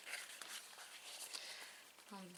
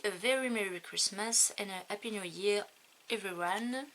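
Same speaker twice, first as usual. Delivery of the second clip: reading the English greeting with a put-on English accent; a light mock English accent on the holiday greeting. Shown as a demonstration. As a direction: say it like an English native, half joking. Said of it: "Super accent anglais".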